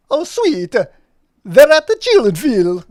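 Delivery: high, loud character voice; vampire-like dog voice. Acted. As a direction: announce it like a happy cartoon dog. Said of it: "sounding like a vampire".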